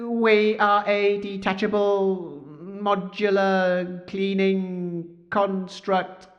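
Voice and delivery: slow, stiff robot voice. Pretend. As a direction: drone it out like a machine. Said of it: "your robot voice could do with some work".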